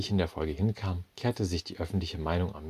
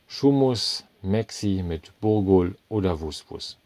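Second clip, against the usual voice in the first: cheery cook; 2 semitones higher, 6 dB louder, slower than usual. A narrator's reading. Naftali offers his dishes to the customer, slow and cheery. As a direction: reel off the menu.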